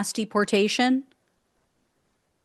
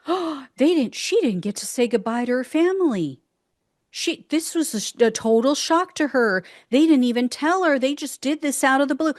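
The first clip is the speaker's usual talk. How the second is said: higher, hammed-up shocked supporter voice; mock shocked supporter; 3 semitones higher than usual. Mocking shocked Trump voters in a higher gasping voice. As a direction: parody their naive surprise, higher. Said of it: "And they're shocked".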